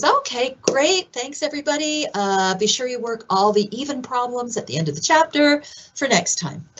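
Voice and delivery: breezy teacher wrapping up class. Retold or imitated. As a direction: toss off the dismissal like a brisk instructor. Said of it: "And then the teacher's".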